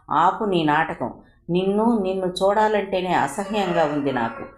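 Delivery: a touch of loathing in the voice; disgusted. Acted. Siri turning on the man she blames, lightly disgusted. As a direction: spit it out with mild disgust. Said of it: "చేదరించుకుంటున్నట్లుగా అంది సిరి".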